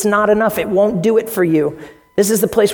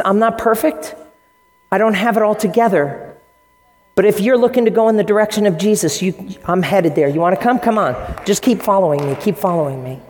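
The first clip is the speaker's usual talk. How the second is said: humble. Retold or imitated. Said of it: "he doesn't say that arrogantly".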